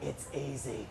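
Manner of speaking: very low, barely-there murmur; whisper. Retold or imitated. Dad beside son aiming at a pig, whispering. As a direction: whisper it coaxingly into an ear. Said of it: "my dad just whispers into my ear".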